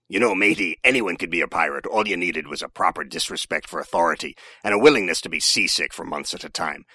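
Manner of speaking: growly pirate talk; hammed-up pirate accent. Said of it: "when you talk like this".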